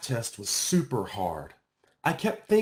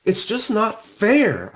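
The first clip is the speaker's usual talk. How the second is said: slow, louder, higher cry of unfairness; upset protest; 9 semitones higher, 7 dB louder, slower than usual. Acted. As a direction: plead it's not fair, drawn out. Upset girl complains to counselor.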